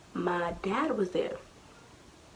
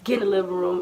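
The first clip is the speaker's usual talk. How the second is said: stern mom; 2 semitones lower, 5 dB louder, much faster than usual. Retold or imitated. Mother ordering child to living room, stern. Angry mom voiced in the story.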